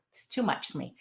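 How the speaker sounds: low, soft, overwhelmed aside; close to tears. Real, not acted. Woman moved by remembering the young recruit, close to tears. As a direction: voice sinking as real tears threaten. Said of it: "I can't do this without crying".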